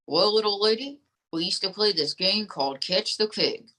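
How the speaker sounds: lightly voiced folksy dummy; ventriloquist dummy.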